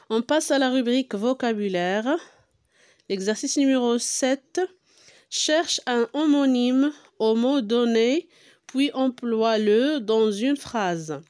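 measured French read-aloud, word by word; slow, deliberate classroom dictation pace; slow instructional reading. Real, not acted. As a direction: read the exercise out slowly for pupils. Reads exercise heading and instruction aloud.

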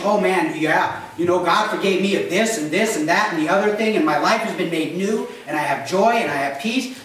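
lightly voiced gushing believer; eager Christian chatter. Christians talking to each other, a hint of eager gushing. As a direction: gush like a happy churchgoer. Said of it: "we'll talk to each other about reconciliation".

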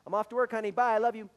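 quick, loud, breezy throwaway; husband rushing out to work, breezy and loud; tacked-on I love you. Retold or imitated. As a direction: toss it off on the way out the door. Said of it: "we just tack 'em on".

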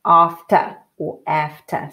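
after said first with a broad ah vowel, then with a flat American a; slow after, once each way; two ways of after. Shown as a demonstration. Teacher contrasts two ways of saying after, slow. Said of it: "That's a".

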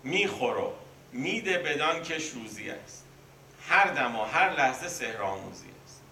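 بیت مثنوی را کشیده و آهنگین بخوان; آرام و باوقار، مثل درس مثنوی; شعرخوانی. Acted. Reciting a Masnavi verse. (خواندن آهنگین بیت برای شاگردان)

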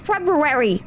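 February with the r after b sounded; says "Feb-roo-ary". Shown as a demonstration. Streamer rejecting chat's way, over-pronounced Feb-roo-ary. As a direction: roll through February as Feb-roo-rary. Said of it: "Nobody says February".

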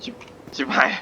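hushed curse under the breath; startled whispered curse. Real, not acted. Startled by a monster, he whispers a curse. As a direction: breathe the swear word out in shock. Startled in a quiet game area.

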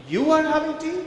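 You ARE having tea with are punched loud and high; disbelieving, lean hard on are; stress on ARE. Shown as a demonstration. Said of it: "It completely changes the meaning".

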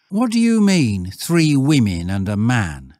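put-on loud boy's query, starting high; challenging schoolboy. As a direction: lad demanding an explanation. Stanley challenges the shepherd.

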